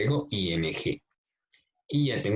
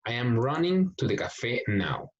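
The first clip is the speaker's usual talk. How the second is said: slow model sentence; slower than usual. Shown as a demonstration. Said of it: "También doblo la N y agrego I N G".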